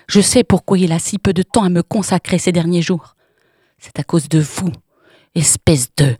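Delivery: loud, cutting accusation; shrill triumphant yelling; piercing shout. Acted. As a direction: scream at the rival she caught. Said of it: "cria d'une voix perçante".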